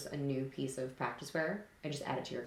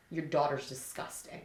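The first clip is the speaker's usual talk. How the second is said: deliberate confrontation; 3 dB quieter, slower than usual. Retold or imitated. Retold confrontation with gym owner.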